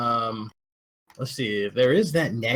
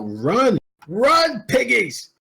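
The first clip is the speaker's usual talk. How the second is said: shouting; 12 semitones higher, 6 dB louder, much slower than usual. Acted. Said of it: "I scream out".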